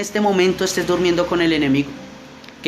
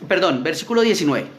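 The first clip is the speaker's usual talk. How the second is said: scripture reading; 2 semitones higher than usual. Acted. Reads scripture aloud.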